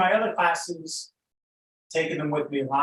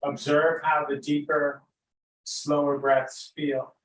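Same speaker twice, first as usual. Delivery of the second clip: unhurried, lead them gently into noticing breath and body; guided meditation. Real, not acted.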